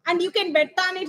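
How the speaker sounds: grimly, at normal volume; a grim promise, kept level. Acted. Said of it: "he said grimly".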